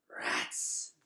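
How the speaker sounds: low urgent bat warning; a hint of a hiss, low. A narrator's reading. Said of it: "hissed Ares".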